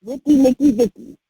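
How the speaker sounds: high, sing-song quoting of relatives; playful high-pitched mimicry; mock enthusiasm. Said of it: "and they're like".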